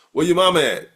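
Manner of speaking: loud casual African American vernacular. Shown as a demonstration. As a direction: call it out in relaxed home vernacular. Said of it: "we speak very casually".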